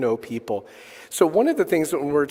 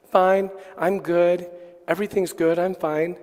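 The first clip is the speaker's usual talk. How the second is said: benign optimism; 3 semitones higher than usual. Retold or imitated. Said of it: "of benign optimism".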